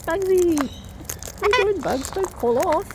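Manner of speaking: high sing-song calling to the bird. Real, not acted. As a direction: call up high to the pet.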